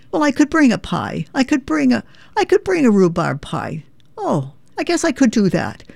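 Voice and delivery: puzzled Irish mum asking about a potluck; Irish mother. Retold or imitated. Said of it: "my mother would say".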